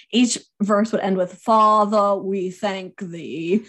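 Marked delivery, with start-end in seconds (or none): 1.3-3.6 slow, drawn-out Southern preacher's grace; thick Southern accent. Retold or imitated. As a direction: lightly imitate an old Southern patriarch's prayer. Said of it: "I'm gonna do this in his thick Southern accent".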